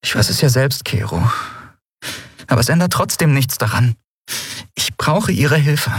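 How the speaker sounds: put-on a young captain pressing her friend; Endriel's voice. A narrator's reading. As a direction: lift into Endriel, urgent and insistent.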